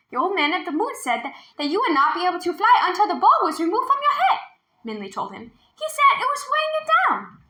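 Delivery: quick, high, laughing telling; laughing explanation. A narrator's reading. Girl explains happily, laughing.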